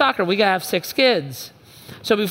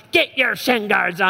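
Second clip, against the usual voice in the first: frustrated yell. Retold or imitated. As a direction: bark it at the kids. Voicing the minivan quarrel.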